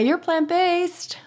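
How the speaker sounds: slow, high, drawn-out teasing emphasis. Acted. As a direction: stretch it out playfully. Teasing reveal of diet.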